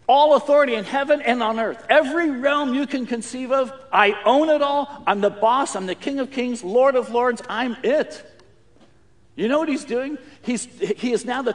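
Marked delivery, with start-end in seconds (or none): 0.1-8.3 loud, ringing declaration of total authority; commanding proclamation. Retold or imitated. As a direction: proclaim it like a king claiming every realm. Jesus voiced declaring authority.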